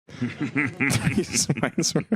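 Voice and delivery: amused slow repeat; laughing. Real, not acted. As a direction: echo it through a laugh.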